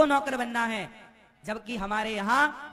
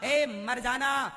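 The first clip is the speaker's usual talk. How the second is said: solemn exhortation; 3 semitones lower than usual. Acted. Brahmin teacher charging pupils to keep their faith, solemnly exhorting. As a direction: draw out the opening, then drive it home lower.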